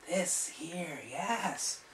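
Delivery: very high, squeaky, gleeful; excitable sprite. Acted. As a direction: squeal it like a tiny fairy. Sprite points at mark.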